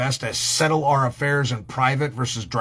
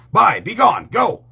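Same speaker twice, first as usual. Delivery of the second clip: put-on shooing kids; 7 semitones higher, 6 dB louder, slower than usual.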